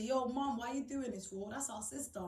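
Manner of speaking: lightly voiced sibling standing up for her; imagined sibling pleading. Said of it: "didn't hear none of my siblings... say".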